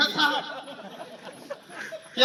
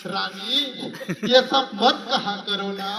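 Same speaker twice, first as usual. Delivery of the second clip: said lovingly; 3 semitones lower than usual. Retold or imitated. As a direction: sweet-talk her gently, drawn out. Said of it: "मैं इतने प्यार से बोला साहब". (पति का धीमा, प्यार भरा मनाना)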